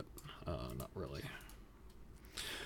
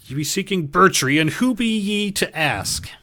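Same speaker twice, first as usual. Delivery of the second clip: higher, louder wary challenge; suspicious guard voice; 9 semitones higher, 5 dB louder than usual. Acted. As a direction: question them like a wary gatekeeper.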